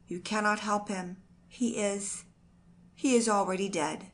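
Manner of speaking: ordinary delivery, nothing marked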